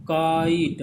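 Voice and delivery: काइट stretched and pushed, "kaa-eet"; emphatic काइट, long "aa" into "ee"; model pronunciation. Shown as a demonstration. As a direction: sound out both vowels of काइट for students. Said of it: "अपने मुंह से बोलिए".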